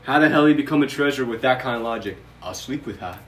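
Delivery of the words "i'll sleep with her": mock British gentleman musing; British accent. Co-host mocking the treasurer's reasoning in a British accent. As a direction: put on a British accent, mocking his logic. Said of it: "I know I did the British accent".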